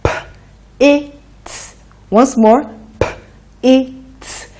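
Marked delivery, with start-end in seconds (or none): 0.0-1.8 P, I, T run closer together; a little faster. Shown as a demonstration. Teacher blending P, I, T faster for pupils. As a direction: blend the P, I, T sounds quicker. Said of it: "A little faster".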